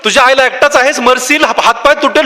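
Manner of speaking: mild mock yell of alarm; mock crowd yelling. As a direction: imitate onlookers calling up a warning. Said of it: "सगळे लोक खालचे ओरडतात".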